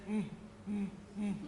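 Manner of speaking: short, imitated grumpy "mm" grunts. Security guy checking mom and daughter, mock grumpy grunts. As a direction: grunt like an unimpressed guard. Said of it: "The grumpiest birthday wish ever".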